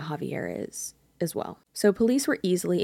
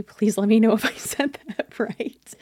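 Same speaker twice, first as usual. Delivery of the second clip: giggling through the request; real laughter, higher and louder; laughing; 5 semitones higher, 5 dB louder than usual. Real, not acted. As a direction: laugh it out, embarrassed. Laughing at own pronunciation.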